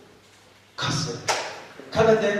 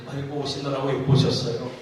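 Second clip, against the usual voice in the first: Chungcheong greeting; 5 semitones lower, 3 dB quieter than usual. Retold or imitated. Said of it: "이분은 웃으면서 아무 스스럼 없이".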